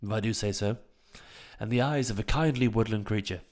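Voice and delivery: hammed-up posh English phrasing; posh accent. Shown as a demonstration. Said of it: "Sound like James May".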